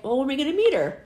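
imitating an eager daughter, high and loud; quick, loud burst of a child's question. Daughter asks mom about meeting her sister, imitated eagerness.

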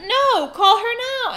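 loud, high, exasperated order; retold heated command; insistent demand. Retold argument on the phone.

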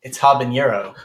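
HABANERO with an audible H at the front; sounded H. Real, not acted. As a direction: say "habanero" as "hah-ben-yeh-ro". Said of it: "missing the H".

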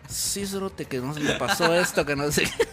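bro slang. Retold or imitated. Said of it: "hay mara que habla así".

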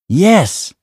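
high, loud insistence; insistent. A narrator's reading. Salva insists to his disbelieving father, urgent. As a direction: burst out with it, pitch leaping.

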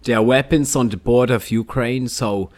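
a light mock German accent on the news. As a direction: read the news as a hammed-up German presenter. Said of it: "I will present this news in a German accent".

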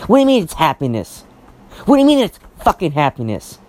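real exasperation, hitting the words hard; worked up. Real, not acted. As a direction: challenge it, getting worked up. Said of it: "I'm getting myself worked up".

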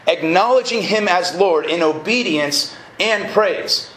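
slow, measured restatement with "Acknowledging" weighted; slow emphatic repeat. Real, not acted. Preacher repeating a definition of knowing God, slow and emphatic. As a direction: repeat it slowly, letting each phrase land.

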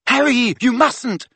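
high, slow shriek of alarm. A narrator's reading. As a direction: shriek to stop him. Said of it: "shrieked Hermione".

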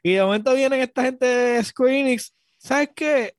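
hammed-up outrage over the game deal; mock rant. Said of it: "este está llorando".

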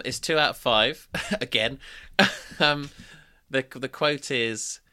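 fighting back laughter; reading through suppressed giggles; stifled giggles. Real, not acted. Reading sexist review, trying not to laugh.

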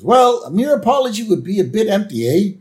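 hammed-up prime minister savouring the booting. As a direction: announce the punishment with relish. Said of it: "the Prime Minister goes".

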